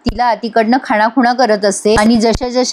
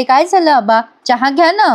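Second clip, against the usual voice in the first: fake sweetness; 3 semitones higher than usual. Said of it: "चांगलं वागायचं नाटक".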